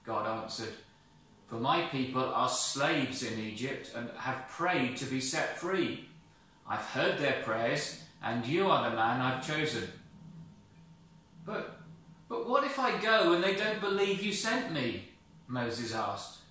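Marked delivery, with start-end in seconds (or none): 1.5-9.9 a lightly voiced firm, calling God; name him with authority. God explains. 11.4-15.1 high, loud, worried stammer; anxious Moses. Acted.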